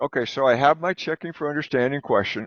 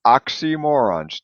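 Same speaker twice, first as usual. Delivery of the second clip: oxymorons drawn out slowly in clear parts; slow model; 3 semitones higher, slower than usual. Shown as a demonstration. Teacher models the next vocabulary word slowly. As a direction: sound out oxymorons part by part. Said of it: "here would be the next word".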